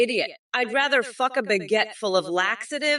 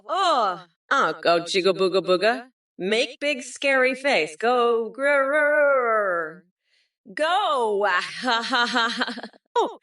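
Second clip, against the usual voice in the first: caveman talk; 2 semitones higher than usual. Pretend. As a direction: grunt it out like a caveman. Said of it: "in caveman talk".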